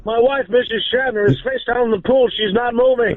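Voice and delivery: a hint of Shatner announcing his wife face down in the pool; William Shatner impression. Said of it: "William Shatner calling".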